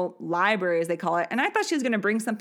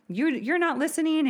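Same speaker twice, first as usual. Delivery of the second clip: imitated scolding; 8 semitones higher than usual. Mom throws child out.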